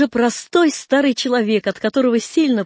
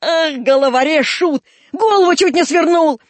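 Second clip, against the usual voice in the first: exasperated scolding; 5 semitones higher, 4 dB louder than usual. Acted. Old man scolds leaping boy.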